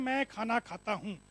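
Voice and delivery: measured, word-by-word model sentence; slow demonstration. Shown as a demonstration. Speaker comparing Hindi with Japanese, slow measured demonstration. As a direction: space the words out slowly and evenly.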